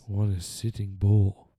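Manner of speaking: hammed-up slow, stately declaration; mock Native American voice. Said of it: "You sound like a Native American".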